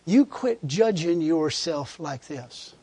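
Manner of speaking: low, slow divine correction; slow, measured instruction; voice of God. Retold or imitated. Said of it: "And he said".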